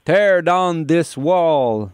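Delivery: mock Reagan speech. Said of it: "Doug Ford qui a dit".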